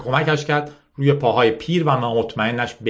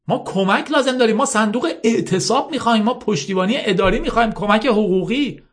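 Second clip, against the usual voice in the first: higher, urgent appeal; pleading young man; 11 semitones higher than usual. Acted. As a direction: beg them to wait and listen. Ashok lists what they need.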